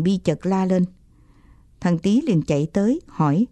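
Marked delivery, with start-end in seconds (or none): none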